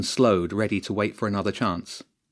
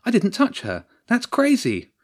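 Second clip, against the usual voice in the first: high-pitched indignant protest; high, outraged denial; shouting; 13 semitones higher, 4 dB louder than usual. A narrator's reading. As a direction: shout back at the referee in disbelief. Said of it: "Nancy shouted".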